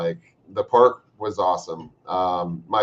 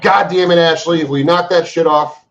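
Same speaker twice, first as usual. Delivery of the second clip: frustrated shout; 9 semitones higher, 11 dB louder than usual. Real, not acted. Shouting at a viewer named Ashley.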